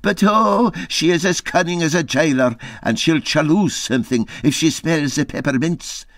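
a hint of a scared mate whispering a warning; Dougie fretting. Dougie warning Peter his wife is coming, nervous. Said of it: "he said".

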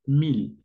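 "mil" with a clear final l, as in Spanish; Spanish-like pronunciation. Shown as a demonstration. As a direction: say "mil" just like the Spanish word. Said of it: "se va a pronunciar como en español".

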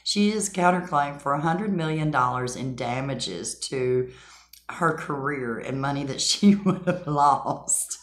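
laughing through the words; can't keep a straight face. Real, not acted. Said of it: "I can't even say it with a straight face".

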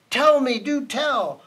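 high, urgent appeal; loud cry that eases slightly. A narrator's reading. Elephant begs his friends for news, crying out. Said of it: "cried the elephant".

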